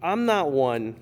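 fighting back laughter, voice high; can't keep a straight face; trying not to smile. Real, not acted. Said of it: "You can't keep a straight face".

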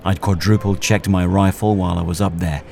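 understated noir narrator over the scene; noir narration. Acted. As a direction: tell it like a weary hitman's memoir. Story narration over music.

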